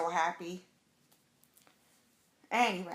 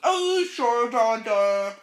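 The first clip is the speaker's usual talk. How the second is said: very high, loud sarcastic brush-off; mock dismissal; 5 semitones higher, 11 dB louder, slower than usual. Husband jokingly brushing off her news, loud high mockery. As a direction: mimic the husband teasing her. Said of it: "just play a joke".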